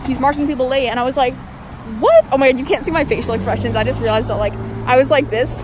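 muffled behind surgical mask; talking with mouth covered; through a face mask. Real, not acted. Seen 0: Surgical mask covers mouth; briefly pulled down near 8.7 seconds.

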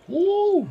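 hot-mouth woo. Real, not acted. Spicy noodle burn.

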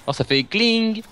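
imitated gun click. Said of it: "elle fait un bruit genre dring".

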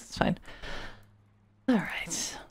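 ordinary talk, nothing marked

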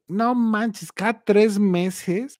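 asombro contenido, más agudo; asombrado. Retold or imitated. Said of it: "Yo así asombrado de". (asombrado, recreando la reacción)

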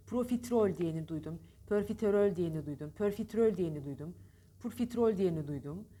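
pörfiterol, pörfitrol, purfitrol with wrong vowels; wrong profiterol versions. Retold or imitated. Teacher listing the wrong ways people say profiterol. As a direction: parade the common mispronunciations. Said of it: "çok yanlış söyleniyor".

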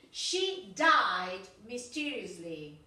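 slow model sentence. Shown as a demonstration. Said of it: "teacher modelling an example sentence".

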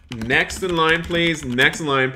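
bright counter-clerk call; calling next customer. Acted. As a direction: call out to the line like a shopkeeper. Serving customers at the truck.

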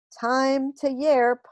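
alien shout. A narrator's reading. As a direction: bellow it out slowly like a strange creature. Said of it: "one of them shouted".

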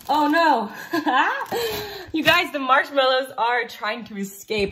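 playful "oh no" breaking into laughter; laughing mock alarm. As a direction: pretend panic with a giggle. Mock alarm at escaping marshmallows, laughing.

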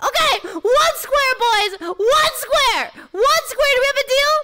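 high, strained pleading through the burn; frantic pleading. Real, not acted. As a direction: beg them urgently. Bargaining in pain.

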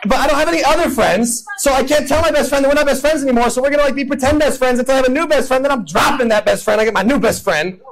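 high, whiny rant about friends; whiny upset roommate. Retold or imitated. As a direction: complain like a self-pitying teen. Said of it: "he comes to you just like".

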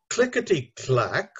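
clickety-clack, deliberately articulated in four syllables; syllables clearly sounded. Shown as a demonstration. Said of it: "four syllables".

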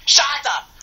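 loud high Shut up!; playful shouted protest. Real, not acted. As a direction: yell it at your friend. Teasing quarrel between friends.

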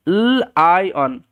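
"এল আই on" as held l, long ai, then on; sounding out. Shown as a demonstration. Teacher showing the new way of reading, sounded out slowly. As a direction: break lion slowly into three separate sounds. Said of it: "sound করে পড়াটা".

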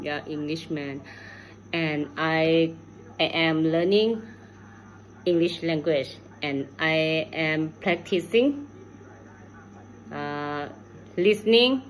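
ordinary talk, nothing marked

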